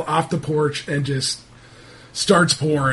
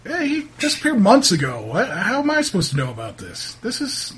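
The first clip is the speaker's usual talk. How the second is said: lightly voiced townsman disclaiming responsibility; a hint of a put-upon local; defensive local man; 5 semitones higher than usual. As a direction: protest mildly, pitch jumping up. Game master plays irritated local.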